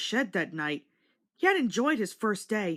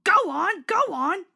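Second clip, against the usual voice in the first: much higher, louder urgent puffing; puffing urgently; 10 semitones higher, 7 dB louder than usual. A narrator's reading. James urging Edward to hurry off, loud puffing. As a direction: hurry him along, chugging the words. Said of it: "he puffed to Edward".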